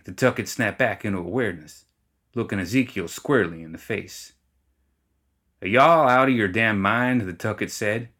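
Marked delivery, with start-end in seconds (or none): 5.6-7.2 loud, disbelieving shout; indignant yell; incredulous. Acted. Gremlin snaps out of trance.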